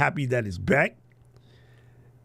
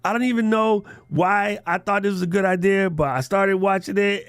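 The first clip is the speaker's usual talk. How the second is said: quoting fan; 5 semitones higher than usual. Retold or imitated. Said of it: "she's like".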